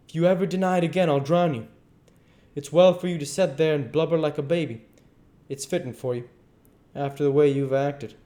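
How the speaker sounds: high, emphatic tongue-lashing; indignant duke. Acted. Duke shaming the king after the confession, angry scolding. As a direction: berate him with wounded outrage.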